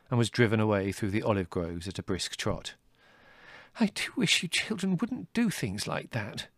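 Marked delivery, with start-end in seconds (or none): 3.8-6.5 high, fretful motherly voice; shaken mother. A narrator's reading. Mother chiding her children after the visitor leaves, shaken. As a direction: chide them as a shaken mother, pitched up. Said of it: "shakily pouring herself a cup of tea".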